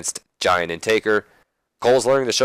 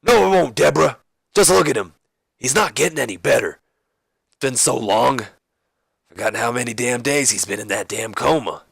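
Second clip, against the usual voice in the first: hammed-up distressed protest; Stone Cold Steve Austin; 3 semitones higher than usual. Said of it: "Austin then replies".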